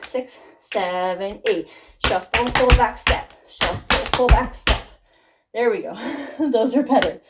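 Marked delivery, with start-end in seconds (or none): 0.0-1.7 slow, drawn-out count-in. Shown as a demonstration. 2.0-4.8 louder, higher step calls over the music; called-out steps. Shown as a demonstration. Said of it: "So faster".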